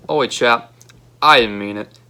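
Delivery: put-on gentle, apologetic Australian accent; soft Australian accent. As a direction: ease off in a friendly Australian accent. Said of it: "Piper says in a soft Australian accent".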